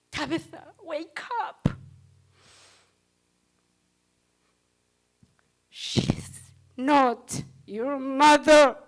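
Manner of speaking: lightly voiced driver, dragging out the news; the driver's warning. The driver telling Tabitha, slowly and firmly. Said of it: "he told me".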